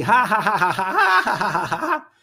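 mock laughter. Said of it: "e começaram a rir".

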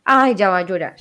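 a mocking little sigh, then the taunt. To someone hurt by teasing, a mocking taunt. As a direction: tease someone for tearing up. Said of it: "les dice algo que no les gusta".

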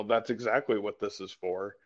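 understated, casual admission; matter-of-fact. Retold or imitated. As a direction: state it as plain fact, softly. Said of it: "he just said it matter of fact".

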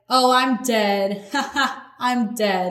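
imitating someone cracking up, with a laugh between; mock amusement. Acting out people finding something super funny, mock laughing. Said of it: "when we find something super funny".

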